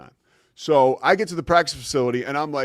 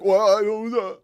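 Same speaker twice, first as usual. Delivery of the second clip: higher, louder flustered stammer; mock panic, pitched up; mildly panicked; 8 semitones higher, 6 dB louder than usual. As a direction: re-enact being caught off guard. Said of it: "kinda panicked".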